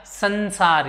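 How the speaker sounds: संसार with an n sound before स; nasal as न. Shown as a demonstration. Teacher explaining the rule, संसार sounded with न. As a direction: say the dot in संसार as न, 'sansaar'. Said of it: "यहाँ पे न में उच्चारित कर रहे हैं".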